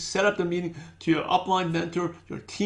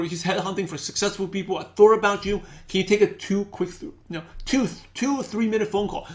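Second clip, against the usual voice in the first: eager, urgent invitation, quick at the start; excited pitch. Shown as a demonstration. Recruiter demoing an excited invite to a friend, upbeat and urgent. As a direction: sell it with energy and urgency. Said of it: "People buy the excitement".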